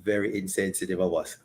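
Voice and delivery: sarcastic aside, sinking to a low murmur. Acted. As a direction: feign concern for the men, tongue in cheek. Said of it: "Was that sarcasm?".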